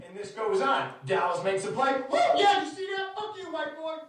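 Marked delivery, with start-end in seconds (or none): 2.1-4.0 high gloating mock shout; whoop, then taunt in a raised voice; imitating wooing heckler. Fan gloating after Dallas makes a play, high mock yelling. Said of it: "back to the wooing".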